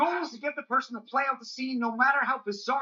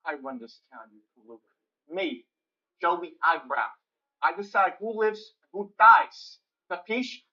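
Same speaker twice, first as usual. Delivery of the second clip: mobster voice; 5 semitones lower, 4 dB louder than usual. Acted. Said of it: "This is Joey Eyebrows".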